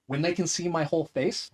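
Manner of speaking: usual speaking voice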